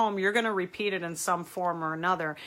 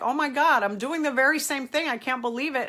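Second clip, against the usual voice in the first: mock shock; 4 semitones higher than usual. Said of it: "You're like".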